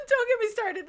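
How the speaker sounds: fed-up loud repeat; exasperated outburst. Real, not acted. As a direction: burst out after the laugh. Repeated, louder after laugh.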